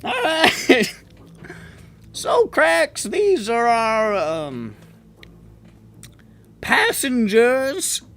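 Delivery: high goblin, slow, searching for the word; high drawn-out goblin pause over a word; goblin, hesitating. Acted. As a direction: slowly fumble for the right word. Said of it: "unusually long time to choose".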